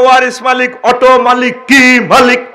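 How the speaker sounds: loud rallying call-out; loud call to crowd. Real, not acted. Preacher rousing the crowd, calling out loudly. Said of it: "আরো জোরে।".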